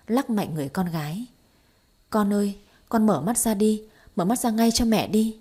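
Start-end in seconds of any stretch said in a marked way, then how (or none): 2.1-5.4 a half-raised pleading call; mild mock cry out. Mother begs her comatose daughter to wake, lightly raised. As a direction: urge her daughter awake, raised a little. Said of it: "Bà ấy cứ gào lên như vậy".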